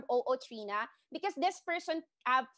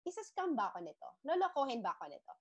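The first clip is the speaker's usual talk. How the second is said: softer, quick suspicious muttering; suspicious inner worry; 5 dB quieter, faster than usual. Retold or imitated. Wary prospect fearing a scam, quick soft worry. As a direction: rattle off the doubts under your breath. Prospect imagining being scammed.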